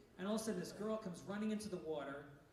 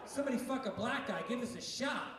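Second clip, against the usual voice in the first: shout; 3 semitones higher than usual. Acted. Punchline yelled at crowd.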